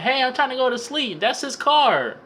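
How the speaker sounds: high, yelling neighbor shouting over the noise; annoyed neighbors yelling. Retold or imitated. Neighbors woken by the car alarm, shouting down high. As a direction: call out like someone woken up and fed up. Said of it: "People was like".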